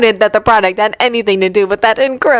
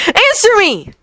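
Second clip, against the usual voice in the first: high, sharp angry shout; angry demand; 14 semitones higher than usual. Acted. Hurt Yuri yells at Victor, demanding an answer.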